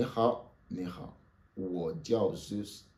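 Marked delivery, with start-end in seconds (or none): 1.6-2.9 slow and clear; slow model phrase. Shown as a demonstration. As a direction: model it slowly for the class. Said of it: "Répétez après moi". (lentement et clairement)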